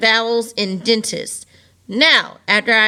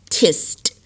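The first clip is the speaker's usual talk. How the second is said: whisper. Shown as a demonstration. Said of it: "teacher repeats syllable whispered".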